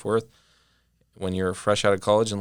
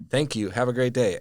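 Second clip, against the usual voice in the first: bright, bouncy thank-you, pitched higher and louder; mock-chipper, like a peppy exclamation-point email; overly cheery sign-off; 4 semitones higher, 5 dB louder than usual. To his boss after a scolding, fake cheerful. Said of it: "Exclamation point".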